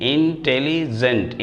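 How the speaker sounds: careful slow teacher's इंटेलिजेंट; slow full word. Shown as a demonstration. Teacher models the whole word for students, slowly. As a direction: say इंटेलिजेंट slowly, each syllable clear, falling at the end. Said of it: "इसका pronunciation करेंगे".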